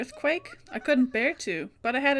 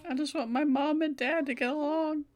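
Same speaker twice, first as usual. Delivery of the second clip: lightly voiced schoolgirl Mayu; 3 semitones higher than usual. Voices Mayu waking confused.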